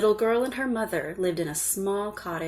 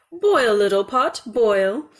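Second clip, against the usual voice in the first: louder chant to the pot; mother's spell; 3 semitones higher, 6 dB louder, slower than usual. A narrator's reading. Hungry mother starting the pot, louder command. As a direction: order the pot to cook. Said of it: "said to it".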